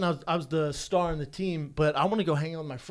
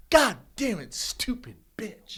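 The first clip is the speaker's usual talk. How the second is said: hissed insult; 6 semitones higher, slower than usual. Retold or imitated. Dad cursing his daughter after a missed shot, whispered insult. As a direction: curse aloud then whisper the slur under your breath. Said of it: "she misses a shot and he goes".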